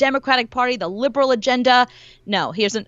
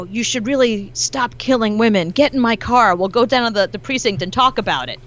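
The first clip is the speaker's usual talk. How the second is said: put-on British accent. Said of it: "in a British accent".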